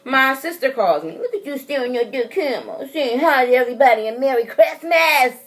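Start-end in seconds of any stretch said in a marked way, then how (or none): 1.2-5.4 playful aside. Real, not acted. Playful aside mid-story.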